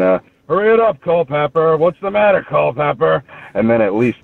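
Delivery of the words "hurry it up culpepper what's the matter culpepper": high, mocking heckle of a drunk fan; retelling a drunk Eagles fan heckling him at the urinal, mock high yell. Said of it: "this one drunk jerk was yelling".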